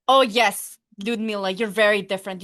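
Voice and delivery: mildly mocking mother's retort; imitated maternal sarcasm. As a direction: pretend to agree, loud on the opening.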